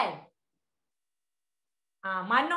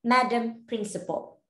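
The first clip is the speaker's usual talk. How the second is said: slow, measured formal address; formal reply; slower than usual. Shown as a demonstration. Replying to the principal about representing Malaysia, formal and slow. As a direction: deliver a stately, honoured acceptance with drawn-out words. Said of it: "You don't reply to your principal like that".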